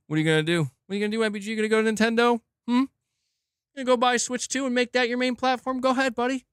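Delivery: lightly voiced cigar-chomping exec taunting gamers; smug taunting exec. Sony execs taunting with cigars.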